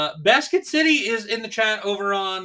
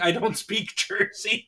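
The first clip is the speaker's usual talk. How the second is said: laughing; 4 dB quieter, slower than usual. Real, not acted. Amused reading of chatter's jab.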